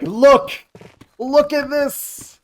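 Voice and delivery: mock excited. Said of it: "and be like".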